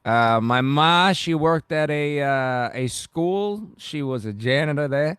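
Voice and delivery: put-on thick Bronx accent, drawn-out words; Bronx character. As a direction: play a working-class Bronx native reminiscing. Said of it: "I go really far with the characters".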